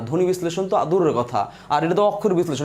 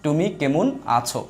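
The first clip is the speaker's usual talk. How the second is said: "তুমি কেমন আছো" slowly, each word set apart; slower than usual. Shown as a demonstration. Teacher showing how we say it, word by word. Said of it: "এই যে আমরা এভাবে বলি".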